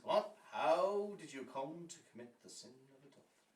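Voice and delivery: high, loud acted demand; priest's loud demand. Priest pressing woman about adultery, loud and agitated. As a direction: burst out with the question.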